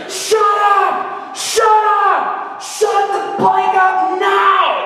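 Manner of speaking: high, drawn-out angry holler; imitated high-pitched screaming; screaming heckler. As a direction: scream it at the speaker like a furious heckler. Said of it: "he's, like, screaming and hollering".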